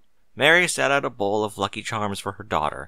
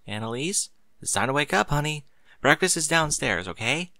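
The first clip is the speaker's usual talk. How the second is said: gentle wake-up; 5 semitones higher than usual. Acted. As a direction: coax a child awake gently. Waking sleeping daughter gently.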